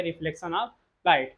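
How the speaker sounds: drawn out and spelled out for the class; slow recap. Shown as a demonstration. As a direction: stretch each word slowly. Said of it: "इसी phenomena को हम लोग क्या कहेंगे". (धीमे, खींचकर दोहराना)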